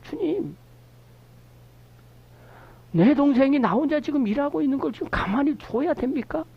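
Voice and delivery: a hint of an indignant sister; angry complaint. Shown as a demonstration. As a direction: let the frustration climb up into the question. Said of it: "이 표현은 화가 나는 거예요".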